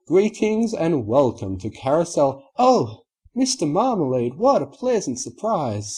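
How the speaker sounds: high, sweet shopkeeper welcome; Rarity greeting. Acted. Rarity welcoming Mister Marmalade at the door, high and bright.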